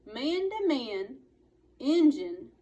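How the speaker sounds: brash cowboy daring a fight; cowboy challenge. A narrator's reading. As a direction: taunt him like a brash cowboy. Cowboy Boone challenging Indian.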